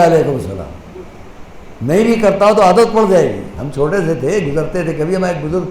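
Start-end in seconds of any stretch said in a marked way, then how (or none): 0.0-1.0 a touch of nervous shyness in the reply; flustered. Pretend. Child caught off guard answering an elder's greeting, flustered. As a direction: mumble the greeting back like a startled child. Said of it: "وہ گھبرا کے کہے گا".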